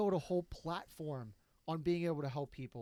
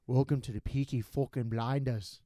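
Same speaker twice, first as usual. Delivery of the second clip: Thomas Shelby; 3 semitones lower than usual. Retold or imitated. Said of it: "practice is fucking Thomas Shelby".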